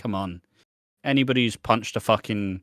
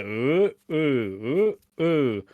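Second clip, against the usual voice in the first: magic trick ooh; 3 semitones higher, much slower than usual. Retold or imitated. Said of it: "when you do a magic trick".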